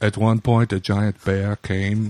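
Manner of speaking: put-on slow, hushed Herzog deadpan with a German accent; a mellow German-accented narrator voice; Werner Herzog accent. Cohost keeps up Herzog's gloomy bear tale in a German accent. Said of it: "sound like a mellow version of Arnold Schwarzenegger".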